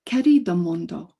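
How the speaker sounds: put-on "Querido mundo" in an English speaker's Spanish accent; Spanish phrase from a poet who doesn't speak Spanish; self-described terrible Spanish accent. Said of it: "please excuse my terrible accent".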